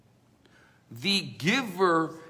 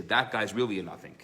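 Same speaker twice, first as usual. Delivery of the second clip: laughing scorn; 7 semitones lower, faster than usual. Retold or imitated. Scholars mock the newcomer.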